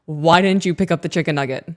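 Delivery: mildly exasperated parent, volume creeping up. Retold or imitated. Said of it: "my volume was increasing".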